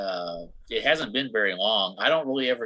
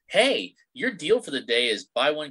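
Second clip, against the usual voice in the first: perky sales pitch; 5 semitones higher, 3 dB louder than usual. Retold or imitated. Voices the app's tempting offers.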